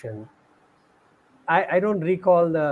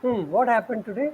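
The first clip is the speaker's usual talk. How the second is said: teasing; 3 semitones higher than usual. Retold or imitated. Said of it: "in a very teasing smile".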